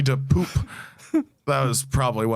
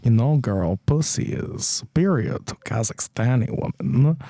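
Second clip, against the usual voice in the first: lightly done mock-Kazakh accent; foreign-accent impression; Borat; 3 semitones lower than usual. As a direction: put on Borat's comic foreign voice. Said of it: "It's Borat".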